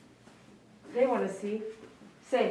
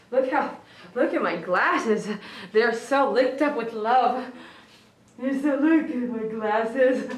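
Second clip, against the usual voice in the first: laughing; 3 dB louder, slower than usual. Real, not acted. Laughing about dog's licking.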